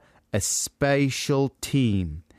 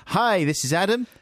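imitating Joe; 10 semitones higher than usual. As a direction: mimic a flustered host introducing a band. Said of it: "That was your response".

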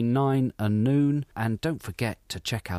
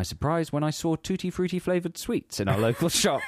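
laughing; 5 semitones higher than usual. Real, not acted. Laughs through reading.

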